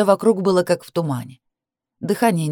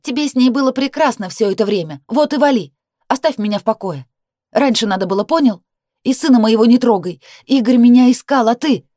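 loud, much higher yell; shout; 7 semitones higher, 6 dB louder than usual. A narrator's reading. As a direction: yell it down the hallway. She keeps yelling.

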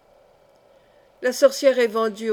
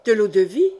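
eager; 6 dB louder than usual. A narrator's reading. Josille eager for brandy.

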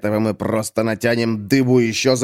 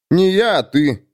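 higher, insistent contradiction; objecting; 8 semitones higher than usual. Acted. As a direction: throw it straight back at him. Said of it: "возразил Комар". (упрямо возразить)

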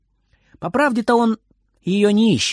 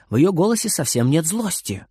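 usual speaking voice

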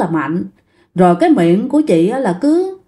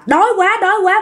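much higher, moaning cry; 10 semitones higher, faster than usual. Retold or imitated. Possessed woman writhing and crying out, much higher. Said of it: "giãy giụa mà cứ la lên".

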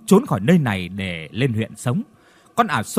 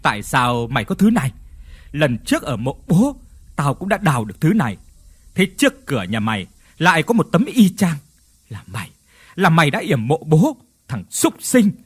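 angry accusation. Acted. Hùng confronts his brother angrily.

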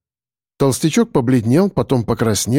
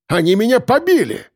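high, outraged complaint; pompous man wailing about being beaten; indignant wail; 9 semitones higher than usual. Acted. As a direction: whine it up high like a wronged child. Complainer wails he was beaten.

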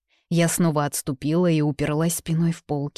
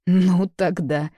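rude interruption; 2 semitones higher, 4 dB louder, much slower than usual. A narrator's reading. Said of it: "грубо перебил Томас".

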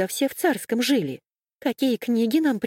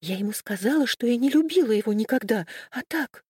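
timid; 6 semitones higher than usual. A narrator's reading. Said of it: "Мура начала робко".

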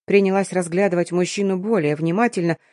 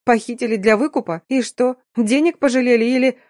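higher and louder, scoffing disbelief; 5 semitones higher, 3 dB louder than usual. A narrator's reading. Daughter scoffing at her father's story, higher and louder. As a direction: snort the questions at him, pitched up. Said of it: "фыркнула".

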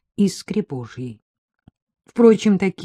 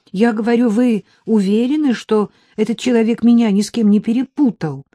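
louder, higher repeat for the phone; raised voice; 5 semitones higher, 6 dB louder than usual. Acted. Anya repeating herself to Maxim, voice raised. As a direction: raise your voice so he hears. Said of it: "сказала я, повысив голос".

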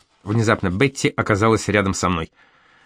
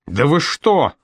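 yelled; 5 semitones higher, slower than usual. Acted. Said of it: "заорал я".

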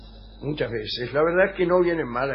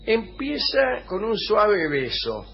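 slow reading; 5 semitones higher, much slower than usual. Shown as a demonstration.

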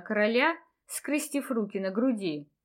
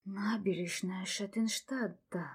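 whispering; 7 dB quieter than usual. A narrator's reading. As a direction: breathe it out softly. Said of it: "прошептал Райан".

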